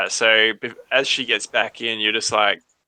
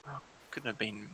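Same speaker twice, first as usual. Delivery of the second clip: hushed voices; 2 semitones lower, 13 dB quieter, faster than usual. Acted. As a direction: keep it hushed, as if overheard from downstairs. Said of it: "like, hushed voices".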